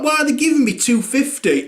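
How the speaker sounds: high puzzled; baffled; confused own voice. Retold or imitated. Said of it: "I'm like".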